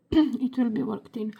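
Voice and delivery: losing her voice, a little rough; hoarse voice. Real, not acted. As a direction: speak like your voice is wearing out. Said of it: "Losing my voice".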